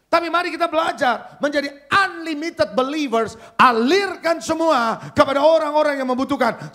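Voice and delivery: high, loud, driving exhortation; full-force preaching. Real, not acted. Preacher telling believers to let it flow to others, full-force fervour. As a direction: preach it out forcefully to the whole congregation.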